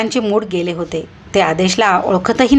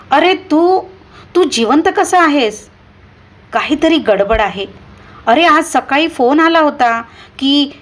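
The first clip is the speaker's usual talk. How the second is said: panicked disbelief; 6 semitones higher than usual. Acted. Ghost calls, teacher panics.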